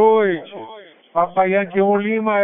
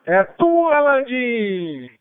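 high, raised handover call; 5 semitones higher, much slower than usual. Real, not acted. Handing over the turn, calling out.

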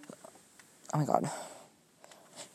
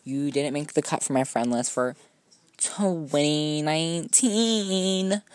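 higher, drawn-out fake-sweet rejection, slow at the end; mock sweet brush-off; 3 semitones higher than usual. Dropping someone from her friend list, mock sweet and slow. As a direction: let her down with sugary condescension. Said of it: "Be like".

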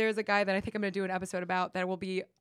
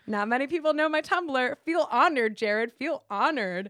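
mock-haughty flirty boast, a little raised; clumsy flirting; 3 semitones higher, 3 dB louder than usual. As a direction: flirt by playfully lording it over them. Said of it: "me trying to flirt".

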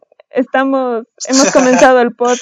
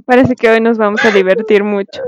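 laughing. Real, not acted. Intro through laughter.

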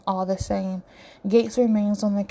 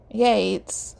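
a breathy unvoiced aside of "Yates"; whispered. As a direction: hush it under your breath, mock disgust. Disgusted whisper at friend's name.

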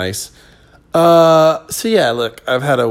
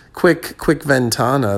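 American accent Spanish; gringo Spanish accent; 2 semitones higher, slower than usual. Shown as a demonstration. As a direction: ventana said like a gringo. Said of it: "I said it like a gringo on purpose".

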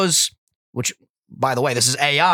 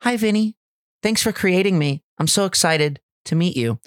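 cute voice; 5 semitones higher than usual. Retold or imitated. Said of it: "I'm gonna give Jessica a cute voice".

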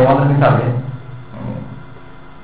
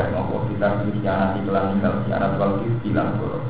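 kitab recitation; 2 semitones lower, 3 dB quieter than usual. Acted. Kitab reading with translation.

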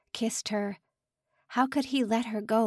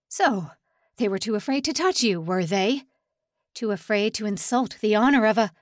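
taunting; 5 dB louder than usual. Acted. Assistant director taunts the prisoner.

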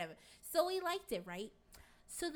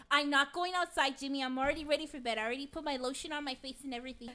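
acted exasperated refusal, raised and louder; loud protest; 4 semitones higher, 9 dB louder, faster than usual. Wife already in bed refuses her husband, loud protest. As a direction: argue back loudly.

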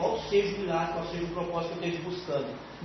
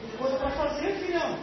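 voicing the servants; 8 semitones higher than usual. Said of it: "os servos dele falou".

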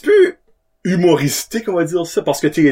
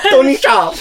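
laughing; 14 semitones higher, 3 dB louder than usual. Real, not acted. Laughing correction.

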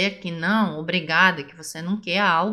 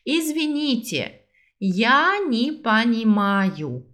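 slow model phrase; slower than usual. Shown as a demonstration. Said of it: "Vamos juntos?".

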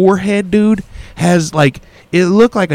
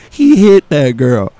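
exhausted mumble; 4 dB louder, slower than usual. Retold or imitated. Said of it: "all I could muster was".

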